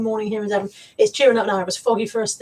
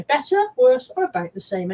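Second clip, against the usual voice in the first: optician voice; 3 semitones higher than usual. Retold or imitated. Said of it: "that tone of voice".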